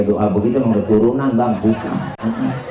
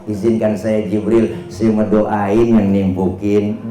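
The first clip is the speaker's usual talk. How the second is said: gentle request; 2 semitones lower, slower than usual. Acted. Prophet asking Jibril's leave to pray, calm and gentle. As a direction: humbly ask the angel's leave. Prophet's mild answer to exasperated angel.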